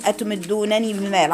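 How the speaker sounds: أتمدونني read with the nuns merged into one doubled nun. Shown as a demonstration. Teacher shows students the idgham in أتمدونني. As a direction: say أتمدونني with an idgham, straight through. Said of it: "على طول إدغام كده".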